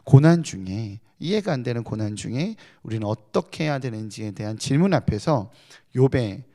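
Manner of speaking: ordinary talk, nothing marked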